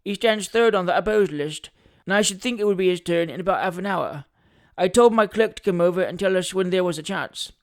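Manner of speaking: lightly voiced lawyer explaining business; a hint of officious legal man; self-important attorney. Attorney explains the court list.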